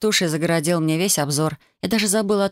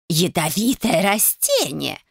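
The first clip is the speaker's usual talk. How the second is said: shouted; slower than usual. A narrator's reading. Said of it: "закричала миссис Юджин".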